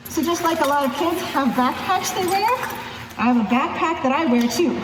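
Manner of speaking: muffled behind a mask; talking muffled through a face mask. Real, not acted. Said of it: "I'm gonna be a little bit more muffled and kind of funny sounding with this mask on".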